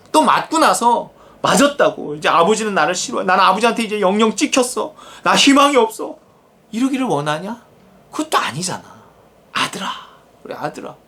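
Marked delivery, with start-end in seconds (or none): 2.3-6.2 mock despairing child. 9.5-11.0 tender call. Acted. God calling his son tenderly.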